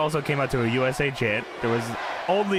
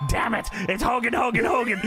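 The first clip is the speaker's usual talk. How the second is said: mock exasperation; 6 semitones higher than usual. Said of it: "And Vince is losing it".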